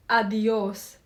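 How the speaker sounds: "Adios" drawn out for learners to follow; slowly. Shown as a demonstration. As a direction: say "Adios" unhurriedly, every sound clear. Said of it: "Say it slowly with me".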